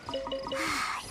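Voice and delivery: short voiced sigh of a game character. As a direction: let out an audible sigh. Game character reacts to camp.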